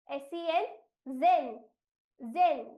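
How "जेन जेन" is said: जेन loud and separate, voiced ज; pronunciation demo. Shown as a demonstration. Teacher shows the S sound, जेन stressed loudly. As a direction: punch out जेन with a z-like ज. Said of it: "एस की आवाज ज".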